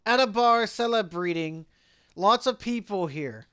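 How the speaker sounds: put-on lightly slurred drunk read; mock-drunk partygoer; drunk Finley. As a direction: play it a little tipsy, dragging the last words. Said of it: "apparently Finley was drunk".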